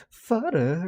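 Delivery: English accent. Shown as a demonstration. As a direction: say it in a humorous put-on English accent. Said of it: "say father in, like, an English accent".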